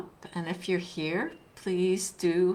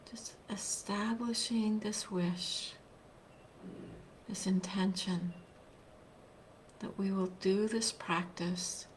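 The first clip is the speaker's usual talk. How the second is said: guided meditation; 4 dB quieter than usual. Real, not acted. Teacher leading online listeners into a seated practice, guided meditation. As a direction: guide them gently, leaving long silences between phrases.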